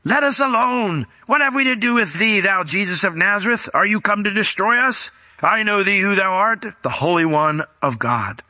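a mild demonic cry in a sermon reading. Acted. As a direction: plead like a cornered demon. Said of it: "cried out with a loud voice".

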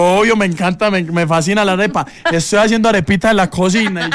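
imitating Diana eagerly.

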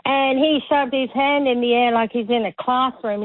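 ordinary talk

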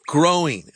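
"growing" set apart by a pause before it; stress on growing. Real, not acted. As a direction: lean on the word "growing". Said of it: "I want to emphasize that word growing".

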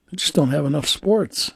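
imitating someone saying it in all seriousness; matter-of-fact quote, no joking; straight-faced. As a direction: say it straight, as if sincerely meant. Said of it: "He said it with a straight face".

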